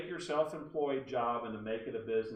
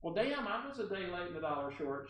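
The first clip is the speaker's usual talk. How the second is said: put-on caller's accent, pitched up; Barbara Delano; 6 semitones higher than usual. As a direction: mimic her accent, a little higher. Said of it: "I have to use her accent".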